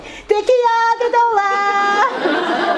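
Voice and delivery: very long, high shout; hammed-up, stretched-out high call; shofar call. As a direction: imitate a child bellowing the long blast. Son calls out long shofar blast.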